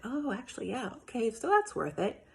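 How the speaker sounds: a hint of a persuaded husband giving in; husband agreeing after good reasons, light voice; convinced husband. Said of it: "he's gonna be like".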